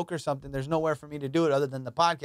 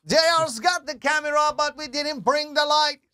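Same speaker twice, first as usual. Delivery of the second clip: much higher, louder Jamaican voice through laughter; Jamaican accent; 12 semitones higher, 5 dB louder than usual. Pretend. Jamaican impression continues.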